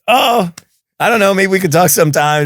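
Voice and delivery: high, sheepish, laughing; giggly, caught-out retelling; flustered laugh. Retold or imitated. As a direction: laugh it off, embarrassed. Flustered reply after being recognized.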